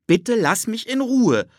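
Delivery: put-on high boy voice, pressing hard; urging. Philipp urges Ted away, high insistent boy voice. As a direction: plead firmly to be let go. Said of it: "drängte Philipp".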